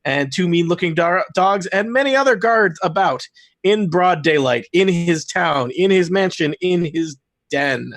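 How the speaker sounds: slow dramatic scene-setting voice; game master narration. Acted. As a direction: set the scene slowly, with weight.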